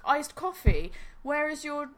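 hammed-up demands for missing flavours; mock outraged rant. Friend rants at British Dunkin' Donuts, mock outraged.

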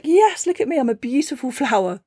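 high preening brag, settling on the end; showing-off flower. Acted. Blooming flower preening for everyone, high and vain. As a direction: show off like a vain little flower.

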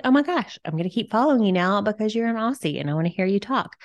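excited gushing. Retold or imitated. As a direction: gush excitedly, quickening as you go. Acted excited reaction to the creator.

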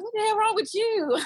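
imitating baby sister. Baby sister reacting to the pregnancy news, high mock shock. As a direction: play the little sister, shocked and blunt. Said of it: "She was like".

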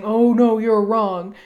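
hammed-up disagreement; mock contradiction. Answering a judgment, mock-firm. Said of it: "you're not saying".

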